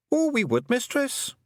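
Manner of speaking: put-on high, lilting Scots-accented little man; a cheeky tiny clansman owning up; wee Scottish Feegle. Feegle chief confessing to the young witch, high Scots voice.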